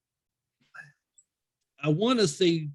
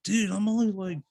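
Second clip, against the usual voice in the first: retold eager pitch, higher voice; eager cousin; 5 semitones higher than usual. Cousin offering to go along, mildly eager. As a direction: talk him into it like a keen buddy.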